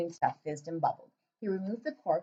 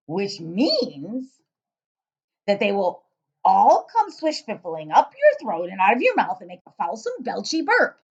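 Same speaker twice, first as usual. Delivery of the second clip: loud giant voice; 8 dB louder than usual. Acted. Giant questioning the girl, booming and puzzled. BFG explaining.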